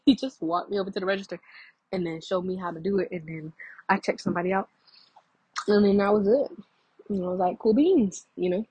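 chewing a cracker while talking; words round a bite of food; mouth full. Real, not acted. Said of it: "how big of a cracker that was".

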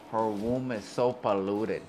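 slow mock Cuban accent; Scarface quote. Quoting a favourite Scarface line, slow mock accent. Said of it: "the part where he says".

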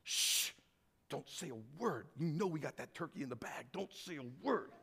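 hushed and conspiratorial, laughing to himself; sly little hush among greedy friends; secretive hush. Acted. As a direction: whisper it like you're hiding the pie from everyone. Stingy crowd hiding their food.

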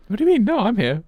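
high, squeaky talking llama; llama character voice. Pretend. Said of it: "I'm still in character as a llama".

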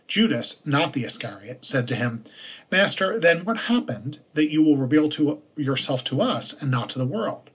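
measured liturgical reading voice; solemn lectern reading; scripture reading. Acted. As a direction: read the lesson to the congregation, clear and steady. Gospel reading.

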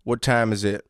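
Southern father giving orders; Southern accent. Acted. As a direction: play a hunting dad with a Southern accent. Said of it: "Southern accents?".

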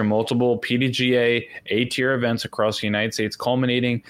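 talking around a sore in the mouth; words slightly slurred by a mouth sore; with a mouth ulcer. Real, not acted. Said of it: "I have a sore in my mouth and it's screwing up the way I talk".

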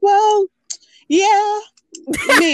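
high, drawn-out teasing impression of a hesitant friend; teasing a friend's vague answer, high and coy; coy imitation. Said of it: "And Shireen's like".

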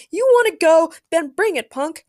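high, feisty dare; shouted challenge. A narrator's reading. Carol dares Black Adam to fight, shouting. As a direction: square up for a fight. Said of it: "Carol shouted as she stood up".

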